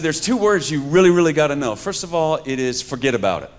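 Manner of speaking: imitating a Bronx cousin; Bronx cousins' accent. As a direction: school them like a Bronx cousin. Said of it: "So they said".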